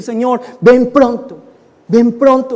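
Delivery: slow, insistent preacher's appeal; fervent plea. Acted. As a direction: cry out in urgent prayer. Acted fervent prayer for return.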